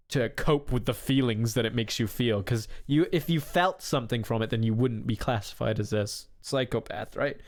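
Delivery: running out of breath mid-sentence; winded, gasping between phrases. Real, not acted. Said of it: "Sorry, I ran out of breath again".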